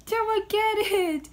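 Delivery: high coaxing pet voice; talking to a cat. Real, not acted. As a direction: coax the cat sweetly.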